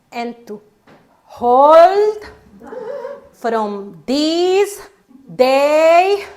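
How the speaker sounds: broken, halting vow with long pauses; nervous bride pieces her vows together. Retold or imitated. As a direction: stumble word by word, unsure what comes next. Nervous bride stumbling through vows.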